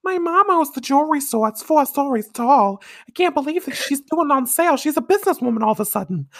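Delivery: high, loud put-on Brooklyn accent; hammed-up Brooklyn girl gossiping; terrible Brooklyn accent. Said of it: "Not my terrible Brooklyn accent".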